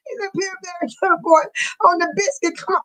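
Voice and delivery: high, teary laughing voice; crying with laughter. Real, not acted. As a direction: squeal it through tears of laughter. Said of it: "Now I can't even breathe".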